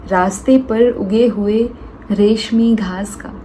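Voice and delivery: measured, earnest Hindi poetry reading with pauses; poem recitation. Acted. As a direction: farewell poem spoken to a dear friend.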